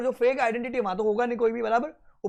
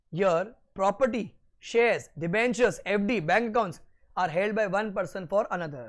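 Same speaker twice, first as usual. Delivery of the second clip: slow, deliberate note dictation; much slower than usual. Acted. Teacher dictating notes slowly to students taking them down. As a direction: spell it out word by word for note-taking.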